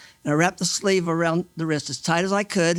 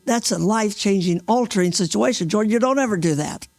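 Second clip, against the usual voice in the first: higher, emphatic reprimand; insistent, mildly angry lecture; retold upset scolding; 5 semitones higher than usual. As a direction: scold him firmly, re-enacting the upset. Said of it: "again got upset with him".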